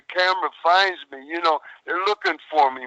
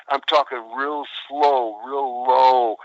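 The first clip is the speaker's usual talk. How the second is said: slow and low; 4 semitones lower, slower than usual. Shown as a demonstration. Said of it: "I'm talking like this".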